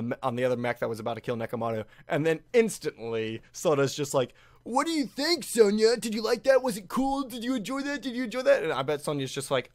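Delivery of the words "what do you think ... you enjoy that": put-on high, eager boyish voice; high-pitched voice of a lad craving approval; Soda asking eagerly. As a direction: play the eager boy fishing for praise. Voicing Soda asking Sonya.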